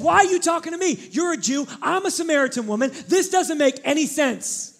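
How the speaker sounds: indignant sassy woman. Acted. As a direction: throw it back at him with sass. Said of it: "I got a little bit of sass".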